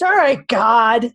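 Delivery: mildly fired-up warrior challenging God; a touch of angry warrior, demanding answers; lightly acted warrior voice, indignant. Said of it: "in my warrior voice".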